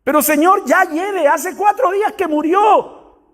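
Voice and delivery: high-pitched, indignant protest; exclamación. Acted. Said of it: "Eso es exclamar". (exclamando con reproche, voz muy aguda)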